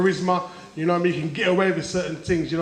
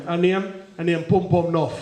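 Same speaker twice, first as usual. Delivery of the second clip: yardie Bond. Retold or imitated. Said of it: "Yardie James Bond".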